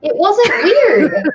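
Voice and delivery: slow, laughing whispered denial; laughing protest. Real, not acted. Woman laughs off the teacher story, whispered.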